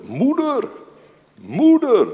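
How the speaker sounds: high, loud cry for mother; anguished cry. Retold or imitated. Young man facing the firing squad, crying out loud for his mother. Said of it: "schreeuwde hij het uit".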